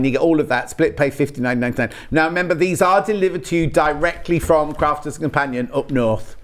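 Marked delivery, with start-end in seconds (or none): 2.1-6.3 put-on a light, half-joking Yorkshire accent. Shopping presenter telling viewers about delivery, mild Yorkshire accent. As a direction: slip into a mild Yorkshire lilt without meaning to. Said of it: "Don't know why I did it in a Yorkshire accent".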